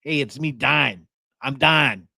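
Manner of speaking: "dying" as "Dine", meaning Don; lightly imitated northern Ohio accent; northern Toledo accent. Family friend announcing himself on the phone, northern accent. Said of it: "and he went".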